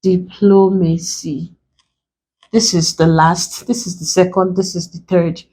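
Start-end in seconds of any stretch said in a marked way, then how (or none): 0.0-1.5 DIPLOMACY split slowly into di-plo-ma-cy; broken into syllables. Shown as a demonstration. Teacher breaking a word for students, DIPLOMACY in separate syllables. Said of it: "We break it into syllables".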